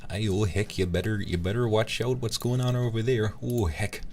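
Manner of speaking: mock Minnesotan with rounded vowels; Minnesotan accent. Shown as a demonstration. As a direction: put on a hammy Minnesotan accent. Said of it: "I sound like I'm from Minnesota".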